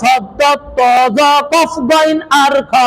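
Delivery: slow, heavy "শব্দ ত জ কফ গইন আর খ", each letter full. Shown as a demonstration. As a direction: recite "শব্দ ত জ কফ গইন আর খ" slowly with thick, rounded sounds. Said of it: "সব সময় মোটা হবে". ("শব্দ ত জ কফ গইন আর খ" ধীরে, মোটা উচ্চারণে)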